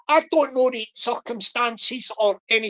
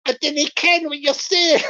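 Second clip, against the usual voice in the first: put-on Scottish accent; 3 semitones higher, 3 dB louder than usual. Acting Richard's baffled Scottish reply.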